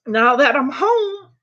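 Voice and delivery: high tearful regret; real crying. Real, not acted. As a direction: grieve lost independence through tears. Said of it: "you should not cry like I am".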